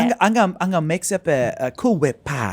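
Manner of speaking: put-on folksy Southern US accent; Kenneth. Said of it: "like Kenneth from thirty Rock".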